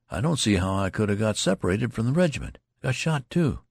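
a hint of a dazed, exhausted youth; staggering tale. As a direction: stumble through the made-up story. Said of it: "staggering before the loud soldier, he began".

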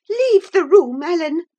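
high, loud, imperious order; heated shrill-pitched dismissal; furious command. A narrator's reading. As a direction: order the servant out in a rage. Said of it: "she repeated, trembling all over".

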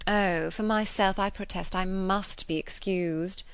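affected, self-important society lady; lightly voiced proud gossip; haughty lady voice. Voices Mrs Elton's prattle.

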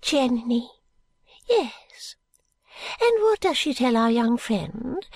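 put-on fluttery elderly lady, hushed and high; Miss Flite voice. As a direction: lean in and confide like a dotty old lady. Miss Flite continues her story.

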